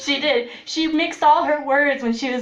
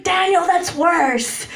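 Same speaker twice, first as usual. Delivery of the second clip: exasperated laughing; 7 semitones higher, 4 dB louder, slower than usual. Retold or imitated. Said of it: "And I was like".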